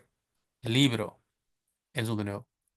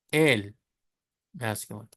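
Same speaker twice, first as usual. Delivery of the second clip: ordinary talk, nothing marked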